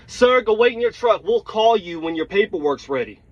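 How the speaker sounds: mild yell, easing off toward the end; retold yell. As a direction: imitate someone calling out an order. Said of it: "the woman yells at me".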